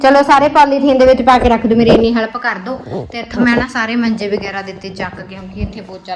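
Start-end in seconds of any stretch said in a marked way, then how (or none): 0.0-3.1 louder, higher bossy call; loud instruction. Real, not acted. Mother instructs kids loudly.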